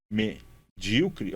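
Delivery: medíocre said very slowly, each syllable apart; slow syllable-by-syllable reading. Shown as a demonstration. Teacher showing students the syllables, very slow. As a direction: drag out medíocre to show its syllables. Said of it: "ó, possíveis e".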